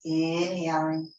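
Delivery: calm yoga-teacher voice with long pauses between phrases; guided meditation. Real, not acted. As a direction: guide them gently into the breath, unhurried.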